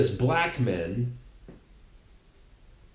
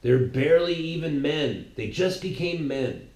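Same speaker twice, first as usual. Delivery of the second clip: mock opponents.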